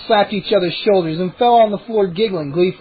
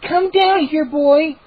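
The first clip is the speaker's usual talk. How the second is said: calling a dog; 8 semitones higher, slower than usual. A narrator's reading.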